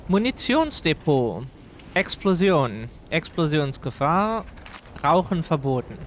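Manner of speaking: Munitionsdepot read in German pronunciation; reading German signs. Shown as a demonstration. Streamer reading signs to chat, in German. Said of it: "one of the sounds that we have in German".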